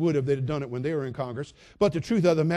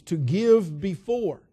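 drawn out, very slow; slow emphasis; 3 semitones higher, 5 dB louder, much slower than usual. Real, not acted. Preacher defining forgiveness, slow and deliberate. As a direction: spell it out slowly.

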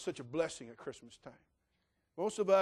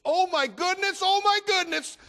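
put-on much higher and much louder, a thrilled toddler's squeal; squealing little girl; 17 dB louder, slower than usual. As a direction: squeal like a two-year-old who just spotted the presents. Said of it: "and she goes".

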